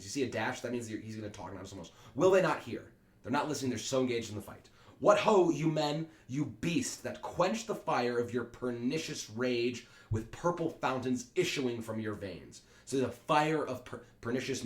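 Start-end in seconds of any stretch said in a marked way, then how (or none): 2.1-2.9 louder exasperation. Acted. Prince repeats louder. 5.0-12.6 commanding call. Acted. Prince commanding the crowd.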